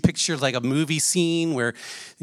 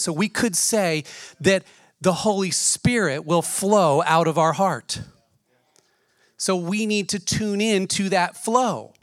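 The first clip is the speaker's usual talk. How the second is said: louder, driving preacher's voice; preaching; 3 semitones higher, 4 dB louder than usual. Acted. Preacher urging the church to tune in, fervent and louder. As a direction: build it up, push it to the back row.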